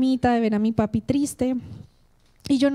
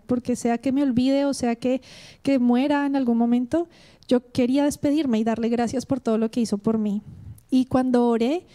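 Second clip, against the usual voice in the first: ordinary talk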